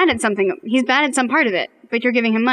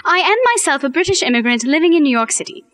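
put-on British accent; 2 semitones higher than usual. Letter reader told to do the British, put-on British accent. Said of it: "now do the British".

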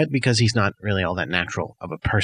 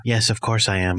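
Jordan Robot; 2 semitones lower than usual. Acted. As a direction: answer as a subdued, devoted robot. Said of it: "I'm a robot of you".

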